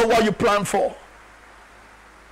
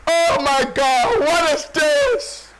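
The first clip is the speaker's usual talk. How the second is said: imitated weeping; 4 semitones higher, much slower than usual. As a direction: cry out slowly, acting his despair. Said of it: "I hear Thomas weeping".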